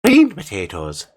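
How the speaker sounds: lightly hammed-up cereal ad jingle, slowing at the end; sing-song mock commercial, pitch jumping high on one line; leprechaun ad voice. Irish speaker hams up a leprechaun cereal ad, playful.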